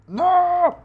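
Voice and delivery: very high, loud drawn-out scream. Real, not acted. Animator failing to grab the ears, frustrated scream. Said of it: "all the times that I scream".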